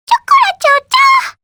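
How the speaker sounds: very high, loud squeaky creature call; cute squeaky critter cry; chao chirp. Acted. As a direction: chirp like a tiny pet creature. Chao creature cries its name.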